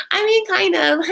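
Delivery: sheepish admission. Retold or imitated. Younger sister admits her crush, mock sheepish. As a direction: squeak out a guilty yes.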